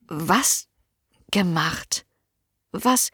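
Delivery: geflüstert, ungläubig; verwirrtes Flüstern. A narrator's reading. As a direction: leise und verwirrt nachfragen. Anna's confused whisper. (Anna fragt Merle verwirrt flüsternd nach)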